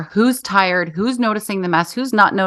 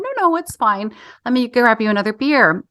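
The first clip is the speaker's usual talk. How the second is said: kindly waving off his help; sweet insistence; 3 semitones higher than usual. Retold or imitated. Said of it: "And I went".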